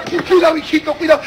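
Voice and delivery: anxious father. Acted. Father behind his toddling child, mock-anxious warning. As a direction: fuss nervously after a toddler.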